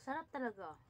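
chewing between words; talking while eating. Real, not acted. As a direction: food near mouth. Seen 0: Chews between phrases, then lifts cauliflower to mouth while speaking.

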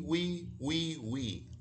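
high little piggy squeal, fading out; mock piggy wee wee. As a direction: squeak it like a tiny pig. Piggy squeals in nursery rhyme.

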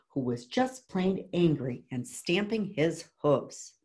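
put-on measured read-aloud to children; story narration. A narrator's reading. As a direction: read a picture book to a class, clearly. Reads picture book aloud.

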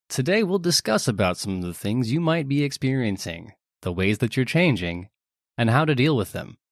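lightly voiced old educational film narrator; a hint of a 1950s newsreel announcer. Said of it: "my nineteen fifties narrator voice".

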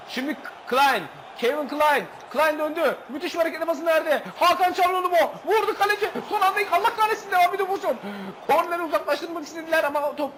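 real thrilled commentary; excited play-by-play. Real, not acted. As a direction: call the attack as it unfolds.

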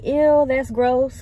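slow, drawn-out mock ew of a hater; mock disgust. Mocking viewers who call her video gross, in a slow mock-disgusted drawl. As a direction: stretch it out like a disgusted commenter.

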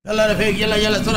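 guard barking orders. Acted.

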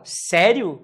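mock disbelief, punched out; surprised reaction. Shown as a demonstration. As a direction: react as if just told some news. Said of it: "quando alguém fala alguma coisa pra você".

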